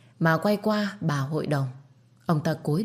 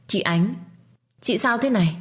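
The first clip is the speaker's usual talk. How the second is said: shocked cry; 6 semitones higher, 3 dB louder than usual. A narrator's reading. Finding sister-in-law bleeding.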